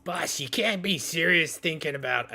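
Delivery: lightly voiced incredulous pirate; protesting pirate crewman. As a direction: chime in, pleading with the boss. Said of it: "pirates kind of chime in and go".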